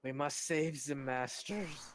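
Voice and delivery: lightly voiced pleading goblin; a hint of an excited little goblin. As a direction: goblin calling out to master. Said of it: "one of the goblins in your party speaks up and goes".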